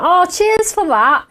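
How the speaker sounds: slow, dry mock thanks; friend's sarcastic cheers. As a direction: say it sarcastically, drawn out. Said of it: "She went".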